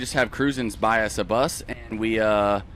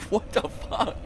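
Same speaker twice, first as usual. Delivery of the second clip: breathless hushed what the fuck; whispered disbelief; 6 semitones higher, much slower than usual. Retold or imitated. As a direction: whisper it, stunned. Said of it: "I was like".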